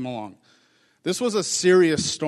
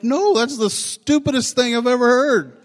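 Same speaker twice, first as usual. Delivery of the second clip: sharp, higher, louder put-down; blunt retort; 8 semitones higher, 5 dB louder than usual. Retold or imitated. Pastor mocking flatterers, blunt high loud retort. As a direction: shoot it down bluntly, pitched up. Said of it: "I'm like".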